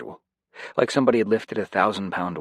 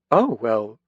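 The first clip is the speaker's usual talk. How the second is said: slow, louder, smiling delight; pleased smile; 8 semitones higher, 5 dB louder, much slower than usual. A narrator's reading. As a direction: savour the good news slowly with a smile. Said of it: "a big smile spreading across her face".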